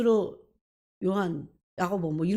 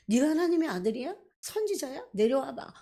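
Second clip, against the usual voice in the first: higher, taunting crowd mockery; mocking jeer; 5 semitones higher than usual. Preacher voicing the crowd jeering at Jesus on the cross, mocking. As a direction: sneer it up at him like a jeering mob. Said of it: "막 비난하면서 막 엄청나게 조소하면서".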